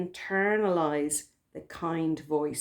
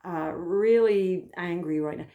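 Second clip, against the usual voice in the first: kind mother voice. Retold or imitated. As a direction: comfort an upset child like a loving mother. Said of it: "there's this kind tone of voice".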